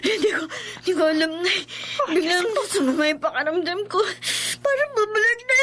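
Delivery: faltering, tearful answer; frightened daughter answering her mother in tears. Acted. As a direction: stammer it through tears. Daughter suddenly sick, frightened.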